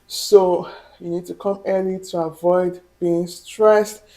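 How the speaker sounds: breathless, talking between breaths; short of breath after walking. Real, not acted. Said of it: "I'm out of breath".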